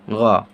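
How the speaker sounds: ग said low and clear; letter sound demo. Shown as a demonstration. Teacher modelling ग for students, low and clear. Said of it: "इसका उच्चारण हो जाएगा".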